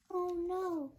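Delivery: loud, dismayed oh no; surprised. Acted. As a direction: gasp out a loud oh no. Alarm at Pete's hiccups.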